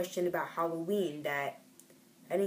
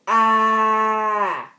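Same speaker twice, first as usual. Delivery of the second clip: mock gasp; 3 semitones higher, 9 dB louder than usual. Mock reaction to chapter title.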